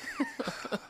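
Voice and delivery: smooth laugh. Acted. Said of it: "you gotta do the smooth laugh".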